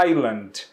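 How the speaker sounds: "Island." said EYE-land, the S left silent. Shown as a demonstration. Teacher models the word for students, S silent. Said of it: "a gente não pronuncia o S".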